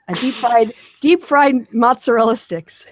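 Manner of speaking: hint of a Wisconsin accent, laughing; mock Wisconsinese. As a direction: put on a Wisconsin accent, half-joking. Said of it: "I'll try to translate this into Wisconsinese".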